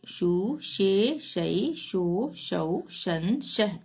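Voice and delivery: measured sing-song letter chanting; syllable drill recitation. Shown as a demonstration. Teacher reciting Hindi syllables for learners, sing-song drill. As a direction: recite each syllable separately with a lilt.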